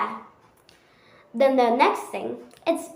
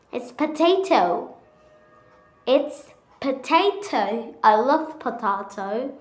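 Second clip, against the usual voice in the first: American accent. Shown as a demonstration. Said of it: "And what is it".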